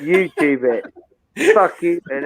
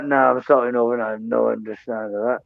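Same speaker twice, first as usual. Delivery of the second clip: low, quick attempt at a Northern Irish accent; bad Northern Irish accent; 7 semitones lower, 3 dB quieter, faster than usual. Host guessing what his mate will say, bad Northern Irish accent. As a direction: put on a poor Northern Irish accent, pitched down. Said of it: "That was a shit Northern accent".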